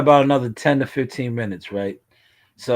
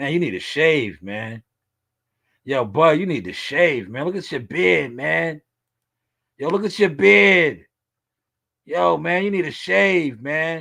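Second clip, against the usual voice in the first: play-acted, playful, mocking, teasing tone; 4 semitones higher than usual. Pausing a video to tease its subject the way others tease him: imitating people teasing him. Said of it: "I gotta do you how they do me".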